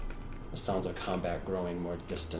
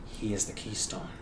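solemn Shadar Kai. Acted.

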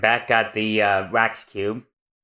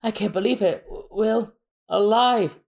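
shocked disbelief; 8 semitones higher than usual. Acted. Mister Five shocked.

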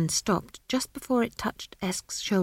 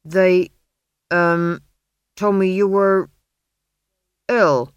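flustered blacksmith; 8 dB louder, slower than usual. Acted. Smith voiced, flustered.

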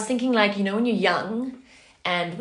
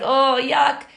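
mock disgust; 6 semitones higher, 7 dB louder than usual. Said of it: "pulled the face, like".

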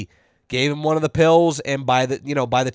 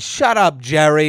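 retold irritated comeback; imitated snappy retort; 4 dB louder than usual. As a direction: snap back as the fed-up lady, pitched up. Lady snapping back at Jerry.

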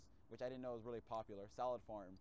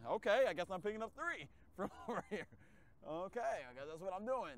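exasperated; 6 semitones higher, 6 dB louder than usual. Retold or imitated. Exasperated retold reply.

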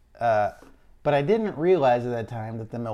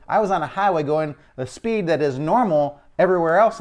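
annoyed; 3 semitones higher, 3 dB louder than usual. Retold or imitated. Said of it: "So now I'm annoyed".

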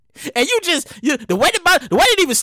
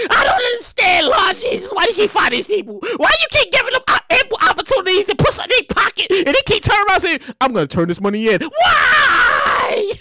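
exasperated plea; 5 semitones higher than usual. Real, not acted. Host pleading with the Lord about honest finders. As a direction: beg the heavens for an answer. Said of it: "exasperated plea".

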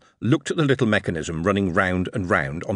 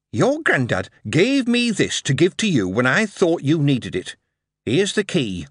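Yorkshire mother; 6 semitones higher than usual. Acted. Mother handing over the key.

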